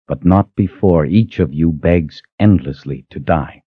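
controlled, menacing threat; icy vow of vengeance; cold danger. Acted. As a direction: threaten her with cold, deliberate resolve. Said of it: "The cold danger in her own voice".

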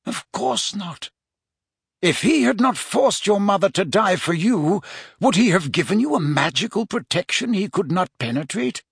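lightly voiced mentor, increasingly insistent; emphatic old-wizard argument, rhetorical questions pressed home; Dumbledore. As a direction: reason urgently with the pupil.

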